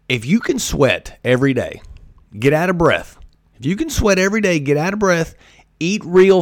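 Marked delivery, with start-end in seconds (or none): 3.6-6.4 quicker and higher, driving it home; faster emphatic repeat. Shown as a demonstration. Urging listeners to sweat daily, fast and higher. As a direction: fire the repeat off fast and high. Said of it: "repeats the line".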